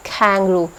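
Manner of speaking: कैंगरू with a ख-like k; aspirated k. Shown as a demonstration. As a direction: puff the k in कैंगरू. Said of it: "वो ख होती है".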